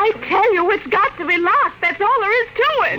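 high, firm and insistent. Acted. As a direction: put your foot down. Wife insists nursery be locked.

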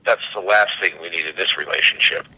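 lightly voiced macho denial, pitched low; puffed-up husband. Husband denying any need after stony silence, a hint of puffed-up pride. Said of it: "The guy puffs his chest out".

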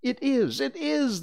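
put-on high excited children; eager cry. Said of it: "they all cried".

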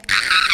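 very high excited "Ah!"; excited squeal. Retold or imitated. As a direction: squeal with over-the-top excitement. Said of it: "very excited over literally anything".

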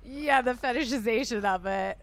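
careful words through a numb lip; numb mouth. Real, not acted. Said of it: "the fact that you could pronounce fetishization".

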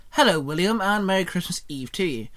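chirped. Acted. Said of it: "Xenon chirped".

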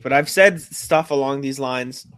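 slowed by hiccups; hiccuping mid-sentence. Real, not acted. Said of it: "my hiccups are brutal".

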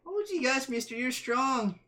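put-on wide-eyed 1950s kid voice; wholesome 1950s kid. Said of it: "you appreciated the reference".

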